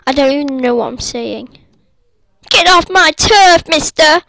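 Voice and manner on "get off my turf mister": loud, higher shout; angry shout. Real, not acted. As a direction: yell at him to clear off. Yelling at another player.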